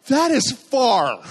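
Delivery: slow, high, drawn-out gasp at the drop; awed fear of the height. Retold or imitated. Man clinging to pole looks down, slow awed fear. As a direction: let the height scare you, slowly. Looking down from the balcony.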